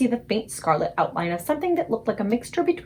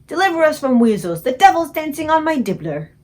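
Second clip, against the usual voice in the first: the BFG despairing over the nightmare jar; anguished cry; 4 semitones higher, 6 dB louder than usual. Acted. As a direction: plead to the heavens in dismay. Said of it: "he cried".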